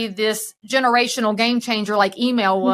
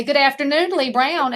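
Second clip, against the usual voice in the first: a bright, loud phone greeting, a bit higher; nice and loud; 4 semitones higher than usual. Shown as a demonstration. Fake phone call in the grocery store, said loud for everyone around. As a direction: announce yourself so the whole store hears. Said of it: "I say it nice and loud".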